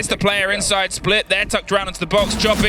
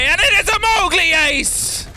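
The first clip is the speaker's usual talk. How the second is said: excited; 8 semitones higher than usual. Real, not acted. Caster calls the ace.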